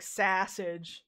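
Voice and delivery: SAUSAGE drawn out slowly with the local vowel; regional pronunciation. Retold or imitated. People where I live say sausage, regional pronunciation. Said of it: "it's like, oh, you say".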